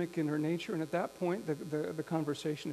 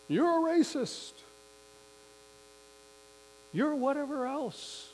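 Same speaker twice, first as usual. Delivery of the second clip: high, loud mock accusation; acted-out angry name-calling, pitched way up; reactive and angry; 10 semitones higher, 7 dB louder than usual. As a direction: hurl it like a knee-jerk insult. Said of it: "itself reactive and angry".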